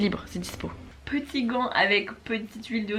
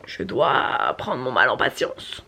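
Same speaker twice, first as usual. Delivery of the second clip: whispering; 8 semitones lower, slower than usual. Real, not acted. Sulking over waiting to leave.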